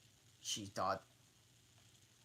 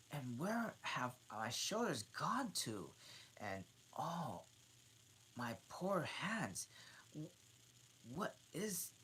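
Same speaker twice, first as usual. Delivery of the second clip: alarmed Alice; 8 semitones higher than usual. Acted.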